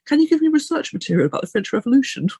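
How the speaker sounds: playful, high-voiced asking; retold eager request. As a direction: pitch it up like a hopeful present request. Own reply to family, retold.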